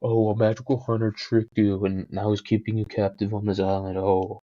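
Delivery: mildly put-upon father complaining; acted-out reluctant dad; begrudging. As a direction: grumble it, grudgingly voicing a reluctant rescuer. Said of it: "a very begrudging rescue".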